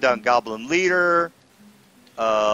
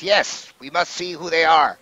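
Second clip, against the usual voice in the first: higher-pitched kobold voice; 4 semitones higher than usual. Acted. Kobold echoing the goblin, higher creature voice. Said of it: "the kobold says".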